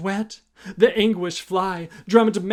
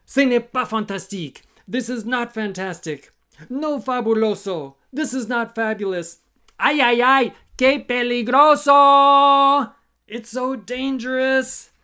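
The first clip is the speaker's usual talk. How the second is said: higher, upset multilingual complaint; fussy insects; 6 semitones higher, 4 dB louder than usual. Acted. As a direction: complain in mock dismay. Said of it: "the insects were saying things like".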